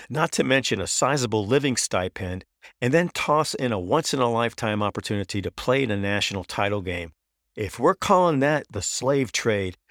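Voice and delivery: imitating a coach's emphatic comeback, pitch lifted; retold indignant rebuttal. Coach answering reporter's slave trade question, retold indignant rebuttal.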